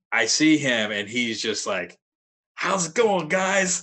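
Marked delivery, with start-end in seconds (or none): 2.5-3.8 much higher, louder cheery greeting; jolly metal singer. Retold or imitated. Death metal singer greeting interviewers, high and cheery. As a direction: chirp it like a jolly dad greeting fans. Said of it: "he's all jolly and shit".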